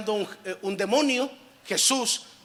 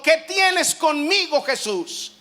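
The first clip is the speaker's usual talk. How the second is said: high, loud, slow demonic plea; slow, loud cry of the tormented demon; 7 semitones higher, 4 dB louder, slower than usual. Acted. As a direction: cry out to Jesus, begging. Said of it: "clamó a gran voz y dijo".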